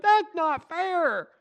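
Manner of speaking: slow, high, drawn-out complaint; whiny protest. Retold or imitated. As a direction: whine it like a sulking child. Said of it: "And you went".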